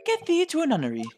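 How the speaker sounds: theatrical Shakespearean. Acted. Eccentric lodger snubbing a thug, hammed-up Shakespearean declaiming. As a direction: declaim like a hammy tragedian.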